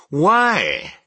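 very high, loud protest; crying out. A narrator's reading. Nephew pressing his uncle for reasons, a loud high cry. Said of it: "cried Scrooge's nephew".

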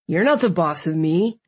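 lightly voiced defiant boy; a hint of a sulky kid. A narrator's reading.

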